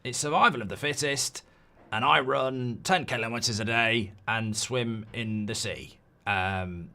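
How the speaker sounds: lightly voiced ruthless billionaire; a hint of a smug tycoon bragging; mock billionaire impression, barely changed; Sir Jim Radcliffe impression. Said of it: "I can do Sir Jim Radcliffe".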